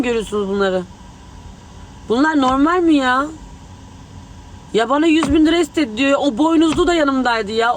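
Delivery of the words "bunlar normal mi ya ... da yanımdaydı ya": outraged. Real, not acted. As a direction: demand the viewers see the injustice. Outraged appeal to the viewers. (isyan eden, yüksek sesle)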